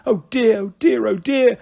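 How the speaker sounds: high, exasperated mum voice; fret, then demand loudly what's going on; demanding mother. Acted. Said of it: "she demanded".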